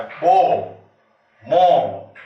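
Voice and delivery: BO and MO (बो, मो) as single loud open syllables; isolated rhyme sound. Shown as a demonstration. Teacher showing students the one shared sound, isolated बो, मो. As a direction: give बो and मो each one strong vowel, apart. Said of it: "एक ही sound हो".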